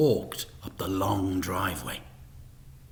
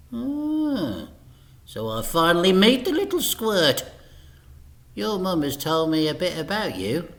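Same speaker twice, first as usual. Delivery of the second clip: higher, louder gloating villain; Mister Big gloating; 7 semitones higher, 3 dB louder than usual. A narrator's reading. Mister Big to Frank, gloating. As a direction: savour meeting the little squirt.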